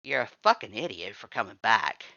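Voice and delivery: contemptuous snarl. Acted. Red scolds the visitor for returning, angry. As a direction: spit it out with scorn.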